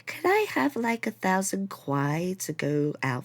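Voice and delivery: put-on high whiny rich kid voice; spoiled rich kid. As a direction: beg like a spoiled rich student. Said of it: "really rich assholes".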